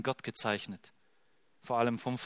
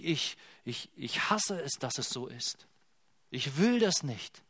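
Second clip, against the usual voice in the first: grieving God; 4 semitones higher than usual. Acted. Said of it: "und er sagt".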